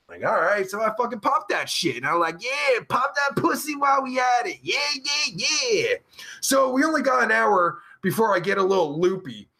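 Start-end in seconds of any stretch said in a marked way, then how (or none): 2.4-5.9 higher-pitched hyped-up cheer; mock excitement. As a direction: act out being lightly hyped up. Acts out his hyped-up reply.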